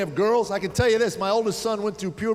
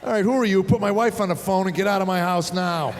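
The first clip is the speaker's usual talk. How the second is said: louder, demanding mock anger; mock angry dad; 3 dB louder than usual. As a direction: bark at the intruder. Dad confronting stranger on phone.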